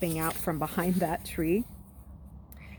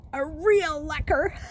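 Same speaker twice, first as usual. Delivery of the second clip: higher, louder, slow jeering through laughter; laughing mockery; 10 semitones higher, 6 dB louder, slower than usual. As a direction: crow it while laughing. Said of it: "He was laughing so hard".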